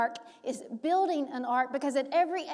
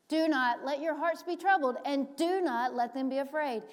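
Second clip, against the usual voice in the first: louder, raised command; emphatic command; 3 semitones higher, 4 dB louder than usual. Acted. Preacher quoting Jesus to disciples, emphatic. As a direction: proclaim it firmly.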